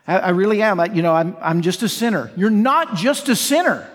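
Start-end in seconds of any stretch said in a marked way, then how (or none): 0.1-2.3 low, hesitant imitation of an excuse; mock resigned excuse. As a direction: fumble through it like a resigned churchgoer. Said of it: "I hear people say this".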